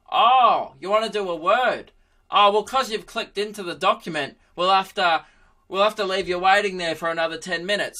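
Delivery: put-on old dude. Laptop explaining a delay to its owner, old dude voice. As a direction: put on an old-timer, voice lifted. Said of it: "like, some old dude taking notes".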